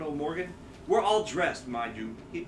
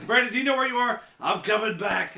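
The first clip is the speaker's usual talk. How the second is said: raised phone voice; 4 semitones higher, 5 dB louder than usual. Retold or imitated. Acting out a phone exchange.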